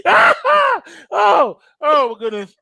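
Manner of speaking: laughing so hard there's no breath left; wheezing, can't stop laughing; real laughing fit; helpless laughter. Real, not acted. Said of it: "I can't breathe".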